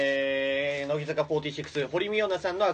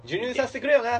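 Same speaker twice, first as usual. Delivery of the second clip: put-on cool older man; 10 semitones higher, 6 dB louder than usual. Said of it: "っつって去ってったのを、".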